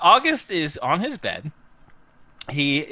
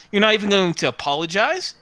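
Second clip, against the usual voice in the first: prissy, offended and quick; snooty; 4 semitones higher, faster than usual. Acted. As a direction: sniff it out, lips pursed. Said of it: "he says in a snooty way".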